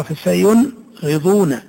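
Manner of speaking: فسينغضون slowly with the ن clearly heard; very slow demonstrating read; clear nun. Shown as a demonstration. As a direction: draw out فسينغضون, nun sounded. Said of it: "تقرأ".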